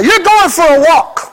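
mock owner voice for a pet walk; wife talking to a pet. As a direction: coax him out like a pet. Wife Sandy leading him like pet.

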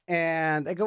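ordinary delivery

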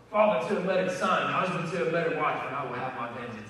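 lightly acted chilling gladiator speech; Maximus. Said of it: "like, super chilling speech".

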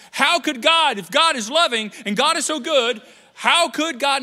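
high, loud mock complaint; hammed-up frustrated churchgoer; complaining believer. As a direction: whine it like a baffled believer.

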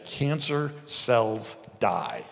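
slow, deliberate command; authoritative command. Shown as a demonstration. Preacher showing how to curse cancer, slow command. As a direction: decree it slowly with authority. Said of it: "you're gonna say".

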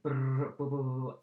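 fast tribe chatter. Retold or imitated. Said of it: "we all speak fast, like".

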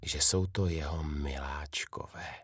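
breathless narrated whisper, barely voiced. A narrator's reading. Father whispering to his jewels, softly whispered. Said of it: "a šeptá si".

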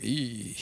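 soft drawn-out wincing squeak; uneasy "eee". Retold or imitated. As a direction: let out a small, quiet "eee". Imitates Jonah's wince at surprise.

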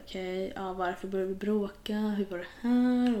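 slowing, mock-thoughtful musing; imitated pondering. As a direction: mull it over like a brooding partner. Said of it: "han sitter och tänker".

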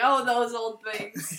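slow, offhand mock nonchalance; lightly imitating a bored star, drawn out; blasé. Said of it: "She's like".

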